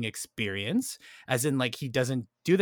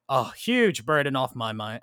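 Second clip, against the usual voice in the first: put-on quoting Tim in a slipped-in British accent; lightly British, unplanned; mock British accent. Retelling the film, quoting Tim in a faint British accent. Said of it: "I don't know why the accent came in".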